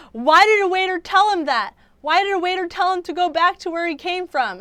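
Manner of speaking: high, loud disbelieving question; incredulous outrage. Real, not acted. Vlogger recalling believing the video, loud incredulous. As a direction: push it up in shocked disbelief. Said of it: "outraged retelling".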